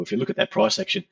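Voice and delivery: slightly croaky, rough throat. Real, not acted. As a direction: speak through a croaky throat. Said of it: "starting to get a croaky voice".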